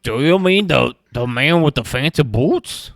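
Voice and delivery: a wolf talking, loud and high; playing a wolf, voice pushed up and loud. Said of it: "trying to get a wolf voice real quick".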